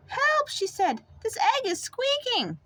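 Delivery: high, alarmed mother bird; alarmed cry. Acted. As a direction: squeal for help, startled.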